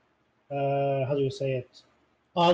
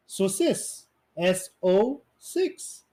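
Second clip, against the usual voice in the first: slow spelled-out pun; 3 semitones higher, much slower than usual. Shown as a demonstration. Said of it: "sis is six".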